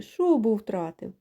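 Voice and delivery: slow mocking goose jeer; geese teasing. Geese mock the sheared ram, slow teasing. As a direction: draw it out like a taunt. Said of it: "кричать гуси".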